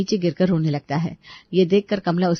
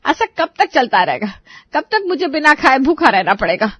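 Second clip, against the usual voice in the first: higher-pitched wail of grievance; exasperated complaint; 5 semitones higher than usual. Acted. Hungry mother-in-law complains of being left unfed, exasperated. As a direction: protest as if long-suffering.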